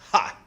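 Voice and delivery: one short scornful ha; bitter laugh. A narrator's reading. Big sister refuses to apologize, with a bitter scoffing laugh. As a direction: spit out a single bitter laugh. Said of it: "a single bitter big sister laugh".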